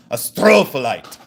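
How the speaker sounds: hammed-up booming second syllable; imitated yell. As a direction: imitate a man yelling it in your face. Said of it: "Do you have to yell it".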